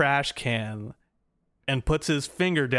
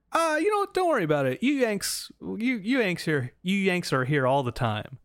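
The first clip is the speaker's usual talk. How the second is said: mock British official; 6 semitones higher than usual. British guy waving them through.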